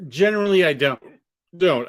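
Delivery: speech broken by hiccups; hiccuping mid-sentence. Real, not acted. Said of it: "I have the hiccups, sorry".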